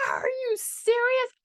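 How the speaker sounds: high whispered gasp; stunned disbelief. Retold or imitated. Surprised by video.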